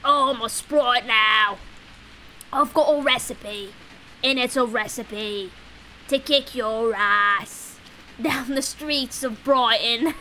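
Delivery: slow put-on sprite voice, mock tough; hammed-up little sprite threatening; goofy sprite voice. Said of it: "And then I come in and I'm like".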